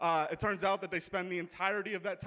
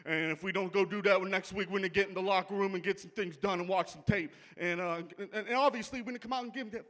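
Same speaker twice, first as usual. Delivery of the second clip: smug coach impression. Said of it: "his goddamn smug attitude".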